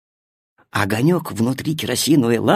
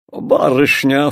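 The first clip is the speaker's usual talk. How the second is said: ingratiating; slower than usual. Acted. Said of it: "вкрадчиво обратился он".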